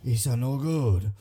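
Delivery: put-on low, heavy Asian accent, repeating; lightly faked Asian accent, low pitched. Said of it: "the worst Asian accent".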